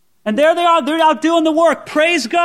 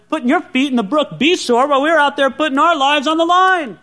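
sneering. Retold or imitated. Camel rider scoffing at the soldier who stayed behind, lightly sneering. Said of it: "he sneers and he says".

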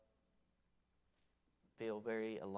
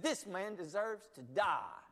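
loud, slow, higher outburst of judgment; mock angry king; 7 semitones higher, 9 dB louder, slower than usual. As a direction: pronounce the death sentence in a rage. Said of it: "He was mad".

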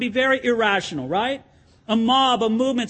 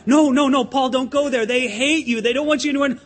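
louder, urgent pleading with Paul; begging friends; 2 semitones higher, 3 dB louder than usual. Retold or imitated. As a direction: hold him back, plead hard. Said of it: "They have to beg him".

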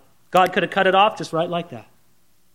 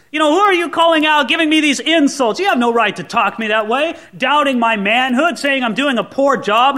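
higher and louder, offended; indignant retort; 5 semitones higher, 3 dB louder than usual. Acted. Abner firing back at David's insults, indignant. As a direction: bristle at the insult to your manhood.

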